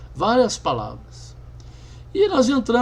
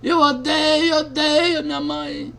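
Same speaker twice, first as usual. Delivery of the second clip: crying out; 6 semitones higher, slower than usual. Retold or imitated. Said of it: "E começou a chorar".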